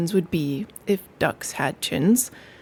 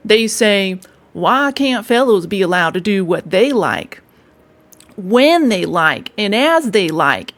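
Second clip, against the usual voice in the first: louder rat quoting the ducks with mock indignation; rat retelling ducks; 5 dB louder than usual. Rat quoting the ducks' complaint, louder mock huff.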